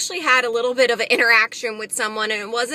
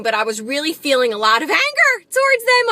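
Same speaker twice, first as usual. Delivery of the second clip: remembered anger; 3 semitones higher, 4 dB louder than usual. Retold or imitated. Admitting anger towards the teenagers, heated. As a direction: voice rising on the retold anger.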